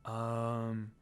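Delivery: soft, low, unsure um okay; awkward mumble. A narrator's reading. Shikamaru awkwardly answering Lucy's sudden yell, low and hesitant. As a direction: mumble it, caught off guard. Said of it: "Shikamaru says".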